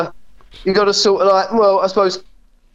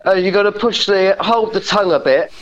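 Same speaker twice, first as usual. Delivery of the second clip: ordinary delivery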